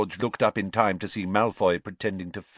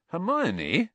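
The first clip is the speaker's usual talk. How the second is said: put-on teen boy voice; 10 semitones higher than usual. A narrator's reading. Ron voiced.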